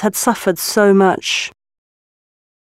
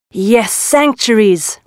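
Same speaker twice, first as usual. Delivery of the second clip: slow, calm confirmation; calm reply; slower than usual. Acted. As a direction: answer slowly and reassuringly. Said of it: "replied the tiger".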